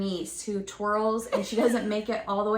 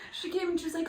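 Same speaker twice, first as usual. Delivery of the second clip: laughing; 6 semitones higher, 5 dB quieter, much faster than usual. Real, not acted. Laughing while telling.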